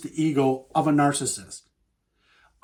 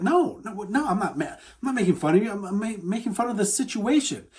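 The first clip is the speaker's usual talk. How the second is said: flustered denial; 4 semitones higher than usual. Acted. Acted flustered denial to upset partner.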